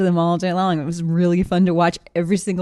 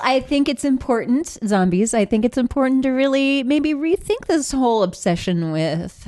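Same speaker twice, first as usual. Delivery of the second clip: inspirational speaker; 5 semitones higher than usual. Acted. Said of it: "inspirational zombie speaker".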